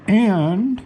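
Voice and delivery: hiccuping mid-sentence; with hiccups. Real, not acted. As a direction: talk through the hiccups. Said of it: "I've got hiccups".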